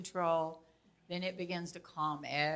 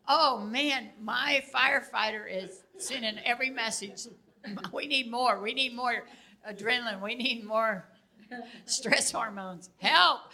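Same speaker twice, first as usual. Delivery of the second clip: raised urgent voice calling for more adrenaline; pleading with her own brain for help, a bit raised; inner alarm voice; 3 semitones higher, 4 dB louder than usual. Retold or imitated. Her brain's alarm voicing urgent demands, raised voice. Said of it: "And I am like".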